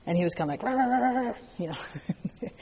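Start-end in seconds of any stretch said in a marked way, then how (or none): 0.6-1.3 mock angry grunts pitched higher; imitating aggressive shouting. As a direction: playfully mimic a furious player. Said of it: "like, very aggressive way".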